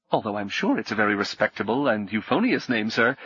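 a flustered innkeeper stammering it out; nervous innkeeper. Acted.

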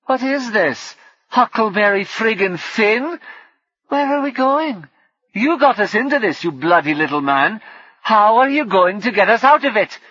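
angry. Acted. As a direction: rage at the little man. Sweet William berates Sellers.

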